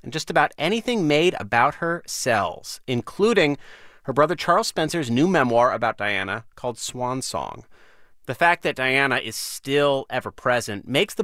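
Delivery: measured radio host read, lively pitch swings; deliberate phrasing with pauses for emphasis; news-magazine intro read. Acted. Host reads scripted introduction.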